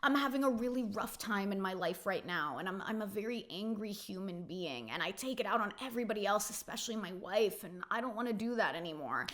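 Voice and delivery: quiet imitation of forced tears; mock choked-up. Jax confessing to Scott in quiet, mock choked-up tones. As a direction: mimic a faked, teary confession, softly. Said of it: "forces himself to choke up".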